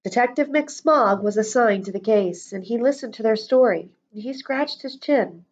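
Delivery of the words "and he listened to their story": ordinary delivery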